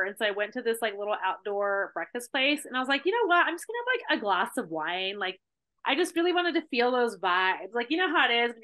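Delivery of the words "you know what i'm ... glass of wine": put-on playful voice of her old drinking self; tempted self-talk. Retelling her past self's tempting thought.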